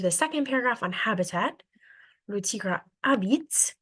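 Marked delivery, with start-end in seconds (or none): 2.3-3.7 slow, careful French; slow French read-aloud. Shown as a demonstration. Teacher reads French to the class, slowly. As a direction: draw out each word for learners. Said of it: "when I say habite".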